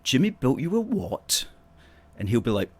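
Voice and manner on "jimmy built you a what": high, incredulous mock question; the wife can't believe what she just heard; wife asking her husband in mock shock, pitched high; surprised wife. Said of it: "she goes".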